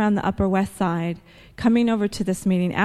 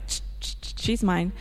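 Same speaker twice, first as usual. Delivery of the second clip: hushed, breathy possessive whisper; playful secretive whisper; mock whisper; 5 dB quieter than usual. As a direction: hiss it like claiming a prize. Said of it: "I took my net and was like".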